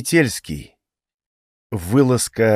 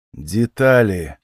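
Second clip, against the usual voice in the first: slow, insistent repeat of Детали; slowly repeated Детали; 3 semitones lower, much slower than usual. Acted. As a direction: draw out Детали, pressing for details. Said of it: "повторил я".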